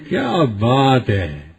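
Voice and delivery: soft, slow, sung-out "کیا بات ہے" in delighted wonder; happy amazement. Shown as a demonstration. Preacher praises someone with happy wonder, soft and slow. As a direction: draw out "کیا" softly, as if praising. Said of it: "خوش ہو کے کہتے ہیں".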